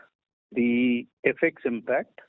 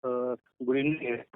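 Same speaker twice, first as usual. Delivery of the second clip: muffled; 4 dB quieter than usual. Real, not acted. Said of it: "you're sounding muffled".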